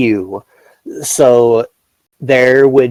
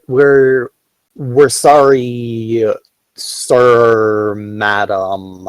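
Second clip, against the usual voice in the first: put-on Chinese accent. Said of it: "the guards speak with a very, very heavy Chinese accent".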